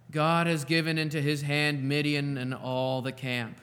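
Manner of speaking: scripture reading. Acted. Pastor reading Judges to his church, measured and clear. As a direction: read the passage out with weight.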